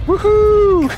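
loud, high whoop of delight; excited whoop. Real, not acted. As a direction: cheer like you just won. Excited cheer during gameplay.

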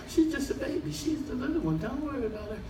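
mother placating. Retold or imitated. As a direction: gently brush off the complaint. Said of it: "Do they tell you that".

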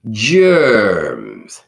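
loud, drawn-out title word; ringing one-word title read; title announcement. Acted. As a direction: announce the title big, then let it fall.

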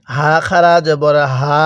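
"হা" with a light sound in the mouth, vowel held long; lightly voiced ha. Shown as a demonstration. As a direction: recite "হা" with light voicing, stretched. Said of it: "মুখের মধ্যে হালকা আওয়াজ করলে".

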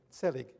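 "Selig" said the Yiddish way, SEH-lig, with the stress on the first syllable; Yiddish pronunciation. Shown as a demonstration. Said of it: "pronounced with a Yiddish accent".

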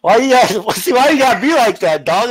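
laughing while protesting; half laughing, half complaining. Real, not acted. Roommate insults him on stream.

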